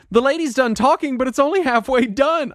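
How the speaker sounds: high-pitched, astonished retelling of a wife; cartoonish wife. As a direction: squeal it like a baffled cartoon character. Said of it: "it was like a cartoon".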